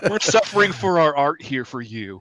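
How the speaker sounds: said through laughter; laughing. Real, not acted. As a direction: chuckle through the line. Joking about illness.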